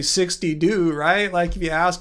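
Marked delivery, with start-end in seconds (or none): 0.0-0.9 "sixty do" with a D in place of the T of two; mimicked mispronunciation. Streamer shows viewers the voice assistant's glitch, mimicked mispronunciation. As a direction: say "sixty do", the last word as "doo". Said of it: "You guys never hear it say".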